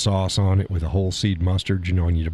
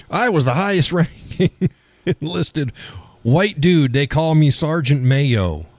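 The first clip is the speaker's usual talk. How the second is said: higher, laughing goofy impersonation; mock Walz; 7 semitones higher than usual. Host mocking Walz bragging about his nickname, goofy and laughing. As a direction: ham up a dopey proud soldier. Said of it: "It's like".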